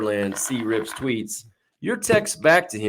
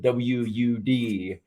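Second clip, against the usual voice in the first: spelled slowly, letter by letter; slow, careful letter-by-letter spelling; 4 dB quieter, much slower than usual. Shown as a demonstration. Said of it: "spelling out text speak".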